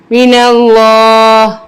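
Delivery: من اللہ slow, ending on a breathed ہ with no vowel; stop form. Shown as a demonstration. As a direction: cut the زیر and let ہ breathe at the end. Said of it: "زیر omit ہو جائے گی".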